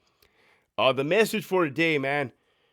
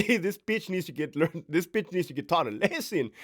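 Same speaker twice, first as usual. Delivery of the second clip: ominous unspoken rule; 4 dB quieter than usual. Retold or imitated. The yard's silent verdict on the mouthy officer, in a dark ominous voice. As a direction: let it sound like the whole yard deciding.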